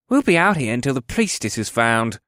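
mildly grumbled character voice; grumbling elf soldier. A narrator's reading. Dark-haired elf to his fellow soldiers, grumbling. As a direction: grumble about being stuck on duty. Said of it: "the first elf with dark hair grumbled".

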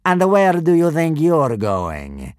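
slow, loud threatening soldier; menacing soldier. A narrator's reading. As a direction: loom over him, slow and menacing. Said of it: "he asked Fishlegs in Latin".

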